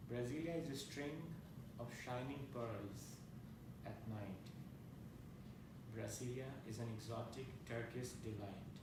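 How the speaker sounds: measured recital with long pauses between lines; incantatory list poem, each line falling to a close; poetry reading. Acted. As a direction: read each line as its own image, then pause. Reads his poem aloud.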